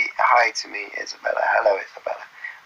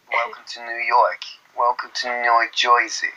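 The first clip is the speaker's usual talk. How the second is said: put-on American accent; 3 semitones lower than usual. Welcoming visitors to New York, mock East Coast American. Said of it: "Someone said do American accents".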